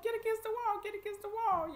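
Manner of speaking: high, loud hollered orders; imitated screaming sheriffs. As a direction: holler commands like a mean sheriff. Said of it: "screaming and hollering at us".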